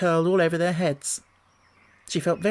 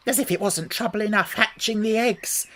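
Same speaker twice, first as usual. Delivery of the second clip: high, put-upon bird voice; pitched-up pigeon grumbling; fretful pigeon voice; 6 semitones higher than usual. A narrator's reading. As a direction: complain like a harried mother bird. Pigeon voiced in read story.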